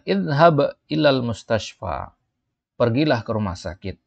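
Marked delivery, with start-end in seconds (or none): 0.1-2.1 raised, slow stern order; acted teacher's command. Teacher tells the sick student to go to hospital, raised. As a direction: send him to hospital firmly. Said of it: "Mudaris mengatakan".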